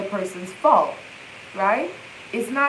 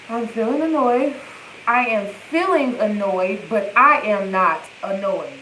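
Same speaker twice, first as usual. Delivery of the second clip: "I am feeling annoyed" level, then "but I am NOT annoyed" with NOT pressed hard; stress on not annoyed. Shown as a demonstration. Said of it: "You gotta breathe like that".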